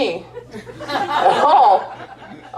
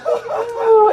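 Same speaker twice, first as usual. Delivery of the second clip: much higher surprised ooh; delighted ooh; 14 semitones higher than usual. Retold or imitated. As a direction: squeal of surprise. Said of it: "You're like".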